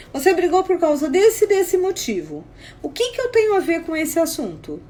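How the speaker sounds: emphatic, indignant challenge; acted-out quarrel with mild heat; retold confrontation. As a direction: argue back, demanding an explanation.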